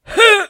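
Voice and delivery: high, loud "heh"; single high-pitched little laugh; short dry chuckle. A narrator's reading. High priest laughs at the king, brief chuckle. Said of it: "всміхнувся верховний жрець".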